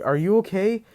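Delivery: high, concerned rise on okay; worried question. Retold or imitated. Friends ask the laughing Deku, high and worried. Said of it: "they're like".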